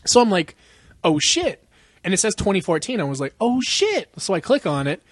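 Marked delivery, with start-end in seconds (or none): 1.0-1.6 a small retold "Oh, shit."; mild mock surprise. Retelling spotting the sequel on the list, mildly surprised. 3.4-4.1 "Oh, shit." pitched up high in disbelief; higher mock surprise. Seeing the sequel is recent, higher mock disbelief. Retelling seeing the year 2014.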